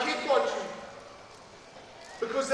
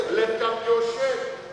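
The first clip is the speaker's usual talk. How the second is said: slow repeat; 2 semitones lower, slower than usual. Retold or imitated. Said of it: "Missus Battersby goes".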